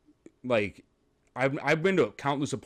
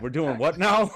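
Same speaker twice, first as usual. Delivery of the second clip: slightly raised, incredulous question; mock bewilderment; 4 semitones higher than usual. Client who forgot his chest appointment, mildly baffled. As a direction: ask it as if blindsided.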